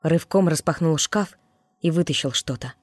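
ordinary delivery, nothing marked

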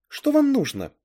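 high, loud demand; confronting demand. A narrator's reading. Girl confronts two intruders in her room, high loud demand. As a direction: confront them with pitch shooting up.

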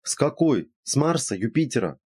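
teasing questions, pitched high; joking. A narrator's reading. Friend teasing about a visitor from a planet, joking. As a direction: poke gentle fun with lifted pitch. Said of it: "пошутила Инна".

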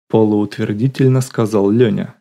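usual speaking voice

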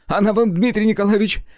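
very high, loud shrill cry; jealous outburst. A narrator's reading. Nikitin accusing Rudnev over Katerina, furious high cry. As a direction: fling it in his face.

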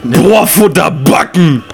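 loud, punchy answer; shouted guess; loud call. Real, not acted. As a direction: blurt the word out.

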